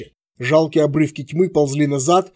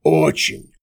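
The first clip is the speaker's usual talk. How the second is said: mocking voice; 11 semitones lower than usual. A narrator's reading. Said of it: "насмешливо произнёс голос из темноты".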